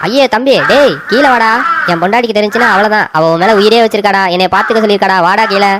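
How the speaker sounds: calling up to the crow in a mild panic; mild pleading cry. Acted. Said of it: "இப்படின்னு கத்தி கதறினானா". (லேசாகக் கத்திக் கெஞ்சும் குரல்)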